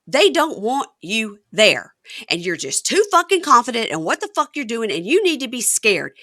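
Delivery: mildly heated, emphatic dressing-down; berating. Retold or imitated. Wife berating husband over the visa, heated.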